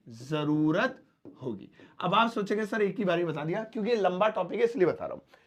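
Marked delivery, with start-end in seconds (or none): 0.1-1.7 slow repeat. Shown as a demonstration. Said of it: "future में भी use कर सकते हैं".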